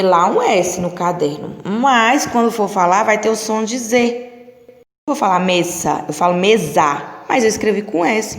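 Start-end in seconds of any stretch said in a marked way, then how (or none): 5.4-7.0 mesa with a buzzing Z sound, me-za; clear teaching word. Shown as a demonstration. Teacher showing class the sound: mesa said me-za. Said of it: "tem o som de Z".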